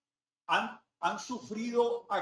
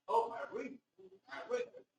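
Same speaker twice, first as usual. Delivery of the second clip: higher-pitched mock attempt at English; babbled English; 7 semitones higher, slower than usual. Lecturer mimicking locals trying to pronounce English, babbled English. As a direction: make a mockery of stumbling English pronunciation. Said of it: "balbucean a veces el inglés, tratando de pronunciar".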